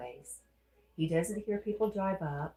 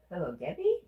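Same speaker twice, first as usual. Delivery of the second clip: louder, rising "Debbie?" in surprise; surprised question; 5 dB louder than usual. Real, not acted. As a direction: react like you recognise the name. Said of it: "Is that you?".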